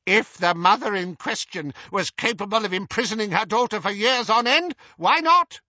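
breezy, high-pitched aunt; shrugging dismissal. A narrator's reading. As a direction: toss it back, climbing to a loud finish. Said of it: "shrugged Auntie Muriel".

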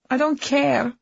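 loud, high angry outburst; angry shout. Acted. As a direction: snap it out in anger. Wife yelling in corridor argument.

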